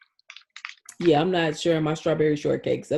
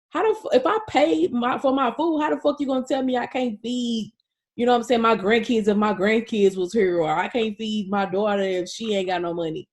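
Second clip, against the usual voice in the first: starts much higher, then settles into a mock-furious rant; imitating angry mama; 3 semitones higher than usual. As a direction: play the mother fuming at the restaurant, hammed up. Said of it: "She was really pissed".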